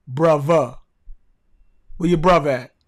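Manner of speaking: "brother" as "bruvva", Baltimore style; casual Baltimore street talk; Baltimore accent. Shown as a demonstration. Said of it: "Not brother".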